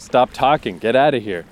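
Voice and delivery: a half-hearted mock freak-out. She snaps at him to go, mock freak-out. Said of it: "freak out at him".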